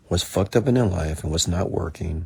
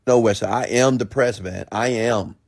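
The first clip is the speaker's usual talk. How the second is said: higher pleading-to-argue mock protest; challenging insistence; 4 semitones higher, 3 dB louder than usual. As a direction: imitate someone refusing to be talked out of it. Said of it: "they will challenge me".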